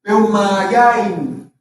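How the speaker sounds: Peumayaimi said very slowly, syllable by syllable; teacher slowly modelling Peumayaimi; slow pronunciation demo. Shown as a demonstration. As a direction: stretch out Peumayaimi for students to copy. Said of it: "Lo mismo con la palabra peuma".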